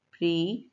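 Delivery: "प्री" set apart by pauses; single syllable. Shown as a demonstration. Teacher breaking comprehension into syllables, "प्री" said separately. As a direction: sound out "प्री" alone. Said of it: "और फिर होगा".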